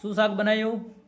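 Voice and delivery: mock call to a wife who cannot hear; asking what's cooking, called out from a distance; calling out from afar. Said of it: "પચાસ ફૂટ દૂર રહીને બૂમ મારે છે".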